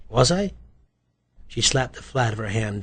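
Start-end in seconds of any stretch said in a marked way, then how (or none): 0.1-0.5 high, rising coy question; evasive suspect. Acted. Suspect dodges detective's question, evasive. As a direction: play innocent with a lift.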